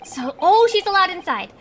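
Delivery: high, bright surprise; pleasantly surprised. Real, not acted. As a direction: caught off guard in a good way. Reacts to companion being let in.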